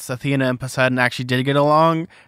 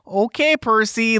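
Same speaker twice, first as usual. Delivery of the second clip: put-on higher-pitched Midwestern mom accent; 8 semitones higher, slower than usual. Podcaster voicing Percy's mom in the minivan, Midwestern accent. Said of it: "like, a Midwestern accent".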